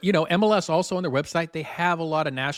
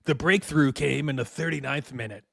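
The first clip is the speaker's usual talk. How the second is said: thespian voice. Acted. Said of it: "my thespian voice".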